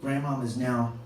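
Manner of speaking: lightly acted soft, slowing speech; gently reassuring eulogy. Uncle ending grandmother's funeral speech, mildly solemn comfort. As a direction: comfort the mourners softly, with pauses.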